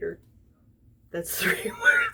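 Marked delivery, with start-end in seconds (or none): 1.1-2.1 very high, loud laughing yell; cracking up at her own joke, high and loud; laughing shriek. Acted. Mocking a two-word comment.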